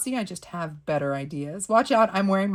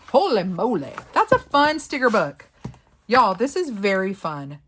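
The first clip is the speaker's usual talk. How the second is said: wowed and emphatic; excited; 3 semitones higher, 7 dB louder than usual. Real, not acted. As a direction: exclaim it with real delight. Enthusiastic verdict on the book.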